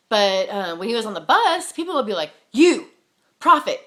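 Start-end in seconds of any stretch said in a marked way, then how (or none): 2.5-3.8 loud, raised-pitch retold call; single someone out with a loud shout. Stranger on a bus hailing her dad as prophet, calling out.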